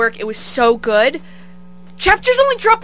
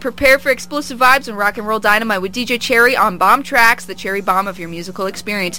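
upbeat radio promo read; reading a station ad on air; radio liner read. Acted. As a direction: sell the show like a DJ spot.

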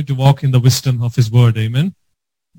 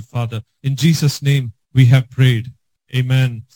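earnest spoken prayer in short, even phrases; steady congregational prayer; leading prayer. Real, not acted. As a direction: pray aloud for the congregation, softening each address to the Father.

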